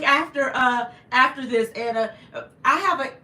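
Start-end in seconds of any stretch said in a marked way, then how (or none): 2.3-3.1 holding back tears. Real, not acted. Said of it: "I don't wanna cry again".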